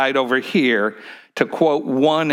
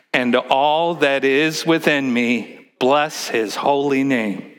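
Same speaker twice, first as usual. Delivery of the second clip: leading the response; slower than usual. Shown as a demonstration.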